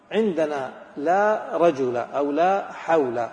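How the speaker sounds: لا رجل and لا حول said slowly, each word set apart; slow careful emphasis. Shown as a demonstration. Teacher asking for attention, slow stressed examples. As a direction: lay out لا رجل and لا حول slowly so students follow. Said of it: "أبغاكم تنتبهوا قبل ما نقول".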